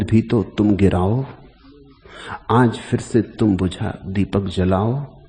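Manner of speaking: measured, declaimed Hindi verse; poem recitation. Acted. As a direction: recite the verse with weighty opening words and deliberate pauses.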